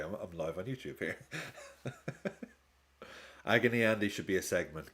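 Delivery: usual speaking voice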